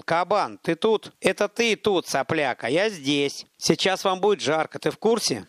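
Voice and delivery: mocking shout at the mercenaries; taunting shout. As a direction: jeer across the square.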